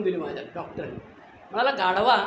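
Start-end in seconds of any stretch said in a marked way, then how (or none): 1.7-2.2 louder retold scolding shout; angry insult. Doctor scolds the patient after a slap, loud mock insult. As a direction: spit out the insult like a fed-up doctor.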